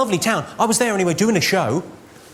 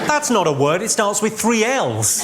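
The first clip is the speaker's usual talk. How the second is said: mock indignant; 2 semitones higher than usual. Dad arguing at Scrabble, acted.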